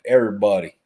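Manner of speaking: punched-out country pronunciation; country accent. Retold or imitated. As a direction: imitate a country guy's greeting. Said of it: "It's like he's from the country".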